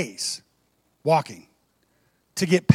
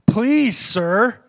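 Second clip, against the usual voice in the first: much higher and louder eager please; eager high please sir; excited plea; 4 semitones higher, 4 dB louder than usual. Shown as a demonstration. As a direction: beg for it, thrilled. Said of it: "She's excited".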